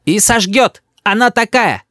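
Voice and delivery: put-on high child's voice chiming in; tattling little boy. A narrator's reading. Boy comments on mother's threat, tattling. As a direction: pipe up high about mum.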